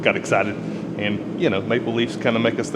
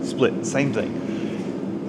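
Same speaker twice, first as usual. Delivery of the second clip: slow aside; 4 dB quieter, much slower than usual. Shown as a demonstration. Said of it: "you're splitting the face".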